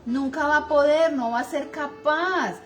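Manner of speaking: mock scolding a child, voice pushed up loud. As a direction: snap it down at the kid like a parent fed up. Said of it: "le decimos a un hijo".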